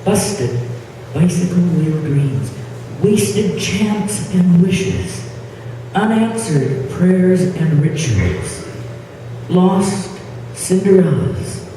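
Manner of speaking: measured poem reading with deliberate pauses; poetry recitation. Acted. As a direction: recite it phrase by phrase, lingering on key words. Poet recites her poem.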